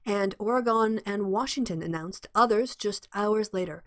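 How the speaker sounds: measured, formal news read; slipping into a news-bulletin delivery; newsreader voice. Shown as a demonstration. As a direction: read it like the evening news anchor. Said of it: "I'm going into newsreader voice".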